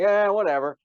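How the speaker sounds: high, careless shrug of a voice; dismissive. Retold or imitated. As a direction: brush it off lazily. Passers-by shrugging it off.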